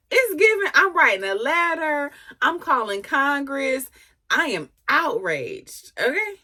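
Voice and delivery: hammed-up indignation, "I am outraged" slowed; lightly mock a huffy entitled lady; mock outraged Karen. Vlogger mocking the girlfriend as an outraged Karen.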